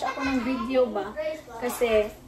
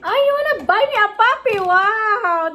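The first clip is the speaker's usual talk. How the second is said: much higher and louder, thrilled; delighted surprise; 8 semitones higher, 7 dB louder than usual. Real, not acted. Mother delighted by child's offer.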